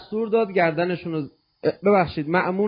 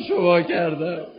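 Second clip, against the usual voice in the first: anguished plea; 3 semitones higher than usual. Acted. Preacher asks the Imam where he ever wronged him, anguished plea.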